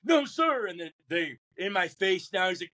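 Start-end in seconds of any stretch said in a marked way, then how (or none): 0.0-0.7 firm refusal. Retold or imitated. Recruit refusing drill instructor's order.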